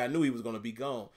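country accent, "gone" said like "goan". Real, not acted. Streamer talking draft picks, country accent slipping out on "gone". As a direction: let the country slip out on "gone", rhyming with "bone". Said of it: "there's a country accent coming out".

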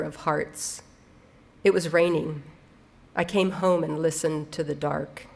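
measured recital with pauses between phrases; understated, deliberate poem delivery; poetry reading. Acted. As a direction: read the poem line by line, letting each image land. Reads poem aloud.

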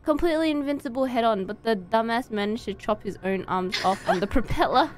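reading the villain's notes with relish; dramatic villain reading. Acted. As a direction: sneer through the notes. Reading boss file dramatically.

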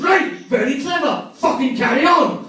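high, slow mock-Scots command; Angus McSporran. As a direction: grant grudging approval as a huge Scot, drawn out. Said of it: "the biggest Scotsman in the world".

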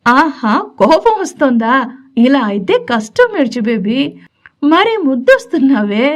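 teasing. Acted. Gowri teasing his pouting wife, mildly playful. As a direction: tease her gently for sulking. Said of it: "అల్లరి చేస్తున్న గౌరీ చేష్టలకి".

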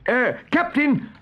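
high, slow hesitant call; hesitant protest. A narrator's reading. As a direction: query the captain's order. Pirate hesitantly questions captain's order.

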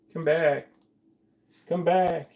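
high, pleading come back. Real, not acted. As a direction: call the window back, high. Window closed by mistake.

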